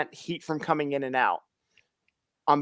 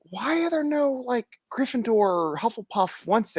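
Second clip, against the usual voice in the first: put-on high, light girlish voice; mock child voice, pitched high; imitating daughter; 7 semitones higher than usual. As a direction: lift way up to play the kid asking. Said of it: "she's like".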